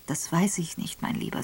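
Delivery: woman comforting a grieving husband; gentle. Acted. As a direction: soothe him gently. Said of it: "sagte Evelyn sanft".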